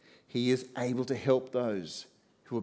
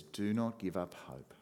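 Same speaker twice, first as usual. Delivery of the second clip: tender; 3 semitones lower, 6 dB quieter than usual. Pretend. Jesus's tender words.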